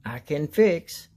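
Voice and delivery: slow, spelled out letter by letter; slow spelling. A narrator's reading. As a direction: spell it out slowly for kids. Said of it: "says Alpha Pig".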